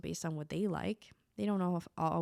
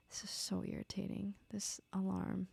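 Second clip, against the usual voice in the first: annoyed whispered aside; irritated whisper; 8 dB quieter than usual. Real, not acted. Alarm keeps ringing, she whispers her annoyance to herself. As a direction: hiss it to yourself, fed up with the noise.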